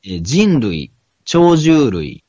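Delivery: careful second read-through of a printed passage; reading aloud. Real, not acted. Podcaster rereads the passage for his co-host, reading aloud. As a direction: read it out phrase by phrase for the listener.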